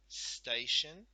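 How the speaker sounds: station said clearly and loud, rising at the end; saying the word. Shown as a demonstration. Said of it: "say it".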